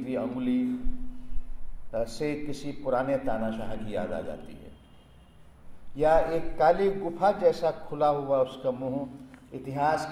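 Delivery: measured poem reading with long pauses between lines; poem recitation. Acted. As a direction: recite it line by line, each line falling at its close. Recites own poem after announcing it. (कविता पाठ, पंक्तियों के बीच ठहराव के साथ)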